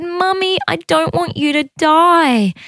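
put-on child's voice. Mum retelling her five-year-old daughter's words, high childlike imitation. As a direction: lightly voice a small child, earnest.

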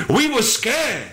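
put-on high, fast panicky kid voice; imitating a frightened teenager; scared teen voice.

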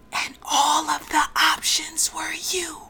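breathy secret reveal; whisper. Real, not acted. Whispered reveal before laugh.

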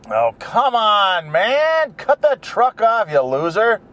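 exasperated jab at a driver; irritated driver complaint; annoyed at driver. Real, not acted. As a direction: vent at the truck. Yelling at traffic.

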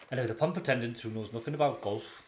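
Irish impression drifting Welsh; lightly voiced Welsh-sounding storyteller; Terry Wogan. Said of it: "I've got Welsh, haven't I?".

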